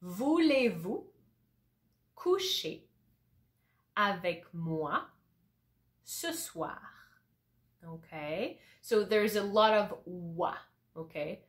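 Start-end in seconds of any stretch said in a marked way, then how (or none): 0.0-6.8 slow, word by word, with pauses; slow repeat. Shown as a demonstration. Teacher repeating the French line slowly for students. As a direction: spell the line out slowly for learners. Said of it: "I'm gonna repeat that slowly".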